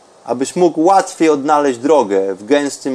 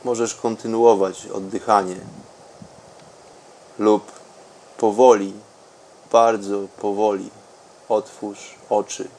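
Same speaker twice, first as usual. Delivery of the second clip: softer and softer meditation voice; guided meditation; 4 semitones lower, 13 dB quieter than usual. Acted. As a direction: let the voice sink into calm. Deep meditation, fading very soft.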